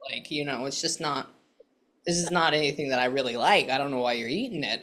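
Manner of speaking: low, understated voice of a reluctant man; man with Northeastern accent. Retold or imitated. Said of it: "little bit of a Northeastern accent".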